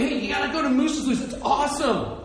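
high, quick, eager recommendation; passionate urging. Retold or imitated. Local telling Alaska visitors where to go, passionate. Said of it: "He's just so passionate".

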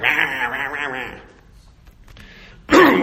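growly rah noises rising to a loud roar; mock grumbling. Preacher mimics a cranky older person, mock grumbling then roaring. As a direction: grumble like a cranky stick-in-the-mud, ending in a roar. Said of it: "we become stick in the muds".

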